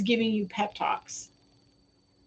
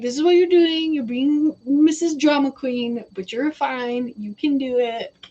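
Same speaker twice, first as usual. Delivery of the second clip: sassy. Retold or imitated. Spirit scolding her like a drama queen, sassy. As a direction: lay on the sass, then ease off. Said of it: "I'm communicating his sass".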